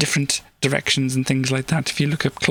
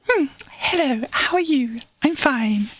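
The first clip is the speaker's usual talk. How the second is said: pitched way up, sing-song hello; high put-on voice; 9 semitones higher, slower than usual. Shown as a demonstration. Streamer demos a higher voice to viewers, pitched well up. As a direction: lift the voice high and bright for a demo. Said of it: "Maybe not exactly in that kind of tone of voice".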